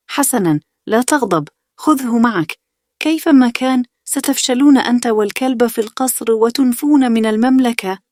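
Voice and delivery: put-on taunting older brother. A narrator's reading. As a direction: sneer down at the little brother from up high. The speaker voiced taunting. (أخ أكبر يسخر بصوت عالٍ)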